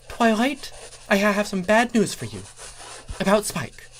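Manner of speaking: high anxious voiced character; Starlight voice, worried. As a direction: break the bad news nervously. Starlight brings bad news.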